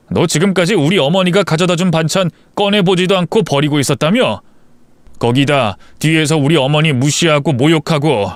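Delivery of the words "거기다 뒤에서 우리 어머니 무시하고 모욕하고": usual speaking voice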